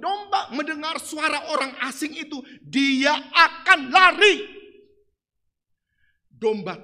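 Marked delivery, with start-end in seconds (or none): 2.7-4.4 "dia akan lari" stretched out slow and loud; slow loud stress. Acted. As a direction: drag out "lari" with force. Preacher stresses sheep will flee.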